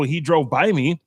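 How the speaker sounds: normal talking voice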